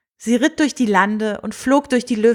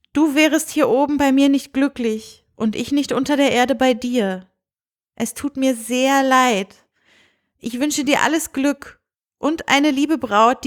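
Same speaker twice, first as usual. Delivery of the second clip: gently regretful princess; 4 semitones higher than usual. Acted. Princess kindly refusing the mole prince, mild regret. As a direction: let her say goodbye kindly.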